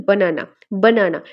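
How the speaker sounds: বানানা with pressure on the middle না; stress demo on বানানা. Shown as a demonstration. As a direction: lean on the second syllable of বানানা. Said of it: "কোন জায়গাতে stress পড়বে".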